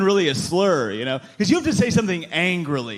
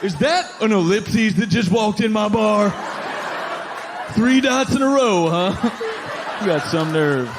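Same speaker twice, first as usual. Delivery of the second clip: raised-pitch, affronted bar regular; mock angry; 5 semitones higher than usual. Bar owner confronting who walked in, mock angry. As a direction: puff up with hammed-up indignation. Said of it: "nobody's ever said dot angrily".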